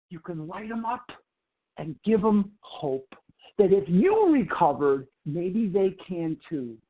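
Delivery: rally the room, phrase by phrase; measured motivational speech; inspirational preaching. Acted.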